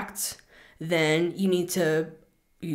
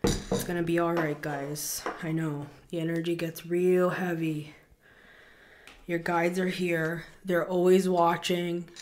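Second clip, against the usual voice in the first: calm and soothing; 4 dB quieter than usual. Real, not acted. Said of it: "let's slow down the energy".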